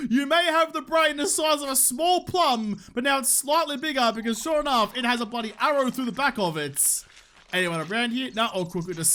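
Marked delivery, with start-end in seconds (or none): 0.1-7.0 raised pitch, triumphant gloat; gloating taunt. Real, not acted. Gamer mocks the crow he shot, gloating. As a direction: crow over a downed enemy.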